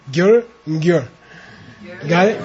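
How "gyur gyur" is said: Gyur plain, then gyur with a slight prenasal; two Tibetan gyur forms. Shown as a demonstration. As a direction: contrast Gyur and gyur, second prenasalised.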